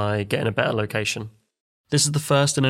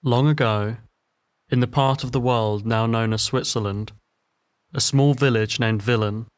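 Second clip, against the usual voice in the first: epic fantasy narrator. A narrator's reading. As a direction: tell it like an old legend. Folk tale narration begins.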